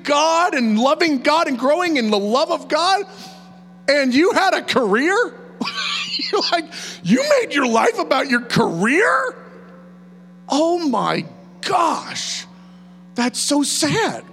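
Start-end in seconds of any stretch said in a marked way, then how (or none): 3.9-14.2 laughing pity, slowing on so sad; mock incredulous. God mocking a life spent on career, incredulous.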